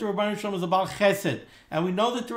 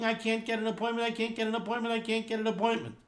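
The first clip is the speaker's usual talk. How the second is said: fast, softer, repetitive mock worrying; anxious; 2 semitones higher, 5 dB quieter, faster than usual. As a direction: act out mild anxiety in a quick, hushed loop. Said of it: "He's anxious".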